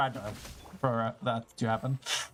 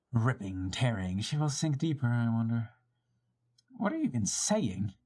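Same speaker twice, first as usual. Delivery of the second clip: lightly voiced smug schemer, amused then condescending; gloating villain. Villain to trapped heroine, lightly voiced smug gloating. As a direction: purr over the trap like a smug villain.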